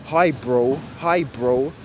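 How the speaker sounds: roadman "Hi, bro" with a negative tone, quick on "bro". Shown as a demonstration. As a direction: say "Hi, bro" negatively, the "bro" cut short. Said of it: "like, a negative tone".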